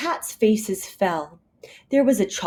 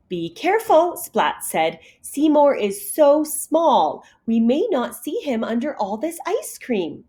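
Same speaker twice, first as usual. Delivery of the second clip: careful Splat; 6 semitones higher than usual. Acted. Splat warns team.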